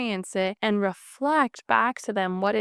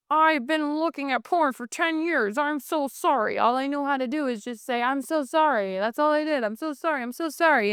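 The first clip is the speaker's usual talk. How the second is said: higher, rote, emptied-out apology; robotic apology; 4 semitones higher than usual. Retold or imitated. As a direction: parrot sorry like a programmed robot. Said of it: "It's so robotic".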